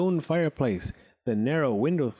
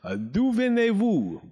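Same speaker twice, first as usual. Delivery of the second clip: French question; 9 semitones higher, 4 dB louder than usual. Acted. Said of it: "smiled warmly at the green girl".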